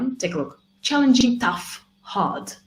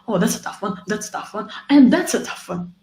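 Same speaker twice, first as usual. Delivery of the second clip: mocking overuse; 3 semitones higher, 4 dB louder, faster than usual. Shown as a demonstration. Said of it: "it doesn't mean ... you should say".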